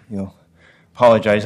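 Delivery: winded after a sprint; breathless from running; out of breath. Real, not acted. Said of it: "I'm catching my breath".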